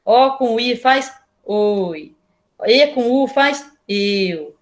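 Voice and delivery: slow, sing-song classroom drill, each sound drawn out; drawn-out, chanting early-literacy drill; slow syllable drill. Shown as a demonstration. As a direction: chant it slowly like drilling first-graders. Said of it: "a gente começa assim".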